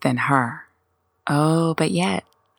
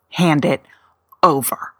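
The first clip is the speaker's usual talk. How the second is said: whispered order. Pretend. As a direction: hand it over in a breathy whisper. Repeat of the order to the barista.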